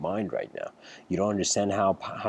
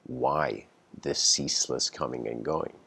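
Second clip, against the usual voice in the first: calm master's voice; 6 semitones lower than usual. Retold or imitated. Old master finally speaking to the restless kid, calm and low. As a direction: ask it gently, like a still old sage.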